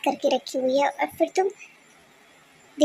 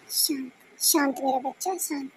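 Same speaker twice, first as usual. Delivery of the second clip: put-on whispered, hushing a crying child; शांत करते हुए धीमी फुसफुसाहट; soothing whisper; 2 semitones lower, 7 dB quieter than usual. (breathy hushing)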